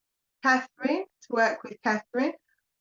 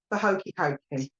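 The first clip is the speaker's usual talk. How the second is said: put-on light Cockney accent on a singalong; a hint of Cockney, half sung; 2 semitones higher than usual. Medium voicing spirits doing the hokey cokey in a light Cockney accent. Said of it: "I've got a bit of a Cockney accent going on there".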